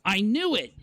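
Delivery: high, hammed-up cry of alarm; mock alarm. Vlogger hams up panic at a troll's spell, high and mock-alarmed. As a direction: pitch it way up like a panicked preacher. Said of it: "I can't talk like that".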